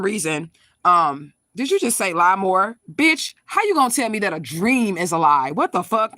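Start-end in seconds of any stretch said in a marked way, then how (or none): 1.5-6.1 real indignant outburst, a little raised; affronted, challenging retort; indignant comeback. Real, not acted. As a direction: clap back at a heckler in disbelief. Snaps at a live commenter.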